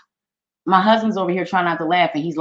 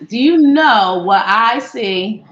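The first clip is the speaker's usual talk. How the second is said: excited; 2 semitones higher, 5 dB louder, much slower than usual. Real, not acted. Excited reveal to viewers.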